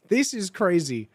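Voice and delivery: plain reading voice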